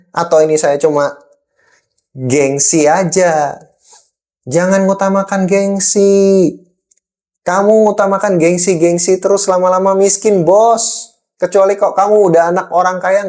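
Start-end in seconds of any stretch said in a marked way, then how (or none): 4.5-13.2 angry boss. Real, not acted. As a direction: scold them like a fed-up boss. Lecturing about prestige spending.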